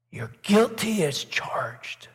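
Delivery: slow, breathy whisper of "You're guilty as charged."; whispering accuser. Retold or imitated. Satan whispering accusations into a churchgoer's ear, slow whisper. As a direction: hiss it slowly into the ear as Satan. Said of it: "he whispers in our ear".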